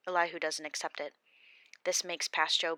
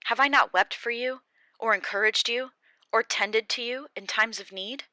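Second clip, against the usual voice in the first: loud, higher, wounded accusation; bitter Job; 3 semitones higher, 7 dB louder than usual. Acted. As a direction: pour out the betrayal. Job answers Bildad bitterly.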